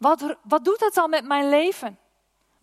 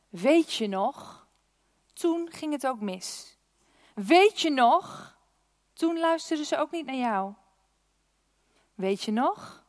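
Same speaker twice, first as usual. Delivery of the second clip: insinuating fear voice; 3 dB quieter than usual. Pretend. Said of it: "En wat hij zegt".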